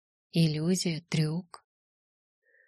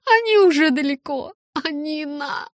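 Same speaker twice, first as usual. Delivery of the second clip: frantic urging; 9 semitones higher, 5 dB louder, slower than usual. Acted. Rose frantically urges guards to act.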